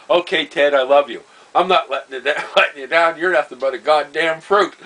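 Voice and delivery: loud mock exasperation; exasperated shout. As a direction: give in, then snap back. Stranded buddy shouting from the pole.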